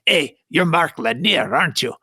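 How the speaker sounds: put-on a touch of Hispanic accent. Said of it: "a Hispanic accent".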